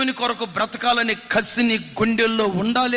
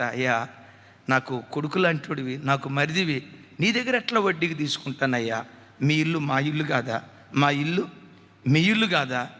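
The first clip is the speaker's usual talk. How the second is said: lightly voiced widowed sister-in-law; 8 semitones lower than usual.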